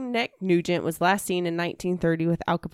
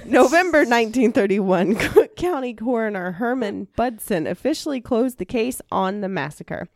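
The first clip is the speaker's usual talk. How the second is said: laughing through it; 3 semitones higher than usual. Real, not acted. Host rereading the case notes, still giggling. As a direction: try to get the line out past the giggles.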